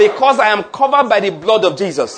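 loud, emphatic, stress on no; a rousing pulpit declaration. Shown as a demonstration. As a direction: lead the church in declaring. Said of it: "Let's declare again".

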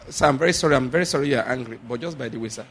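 soft, polite apology; calm it down gently; very nicely. Shown as a demonstration. Preacher shows how to answer the angry boss nicely. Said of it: "explain to him nicely. Very nicely".

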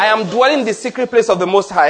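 loud, emphatic, stress on no; a rousing pulpit declaration. Shown as a demonstration. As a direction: lead the church in declaring. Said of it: "Let's declare again".

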